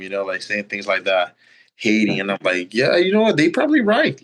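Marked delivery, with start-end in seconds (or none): 2.7-4.2 mock sarcastic agreement. Defiant retort to haters.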